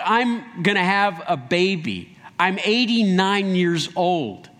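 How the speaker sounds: slow, drawn-out cynical retort; mock a cynical scoff, words stretched out; cynical disbelief. Sarah scoffing at having a baby at eighty-nine, cynical. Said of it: "laughing in kind of a cynical way".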